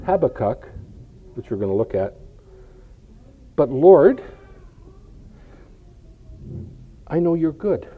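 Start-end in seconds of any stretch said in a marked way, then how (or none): 3.6-7.9 earnest protest. Acted. Acted protest to God, as Habakkuk.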